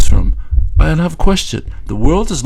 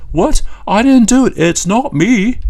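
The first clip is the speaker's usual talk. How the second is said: put-on childish denial; 9 semitones higher than usual. Mocking Trump as a child denying everything, in a high child voice. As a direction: play the caught kid insisting it wasn't him. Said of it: "any child who says".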